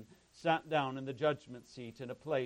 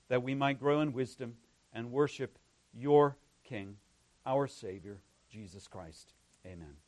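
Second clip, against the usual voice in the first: congregational prayer; 7 dB louder than usual. Real, not acted. Leads a prayer after reading.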